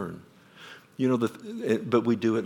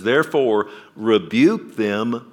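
forceful command; 6 dB louder, slower than usual. Acted. Preacher quoting Paul's command forcefully.

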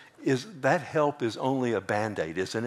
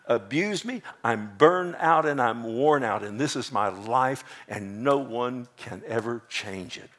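pleading, hurting voice, pitched up; a preacher voicing her heartbroken cry; woman's inner cry. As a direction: pour out her hurt as the woman. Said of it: "in her heart she was going".

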